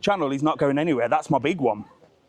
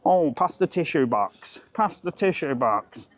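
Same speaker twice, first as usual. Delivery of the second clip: mocking trolls. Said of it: "Bonnie Blue going".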